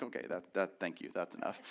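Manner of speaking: strained, squeezed voice. Retold or imitated. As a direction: gasp it out mid-bear-hug. Being squeezed by grandpa's hug.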